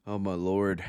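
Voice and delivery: winded after a big meal; out of breath. Real, not acted. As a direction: talk while catching your breath. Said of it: "So I'm a bit out of breath".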